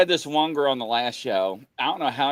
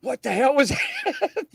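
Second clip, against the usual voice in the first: startled; 10 semitones higher, slower than usual. Retold or imitated. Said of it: "And we're like".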